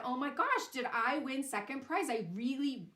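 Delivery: eager, breathless rush of hope; the teller's own gushing take on the father; overexcited kid version. Retold or imitated. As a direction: play it up like a kid begging for the prize. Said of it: "he didn't say it like that, it's me".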